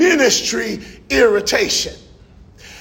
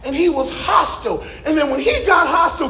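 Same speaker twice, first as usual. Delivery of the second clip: rising tension; 4 semitones higher than usual. Real, not acted. Tense moment in the story.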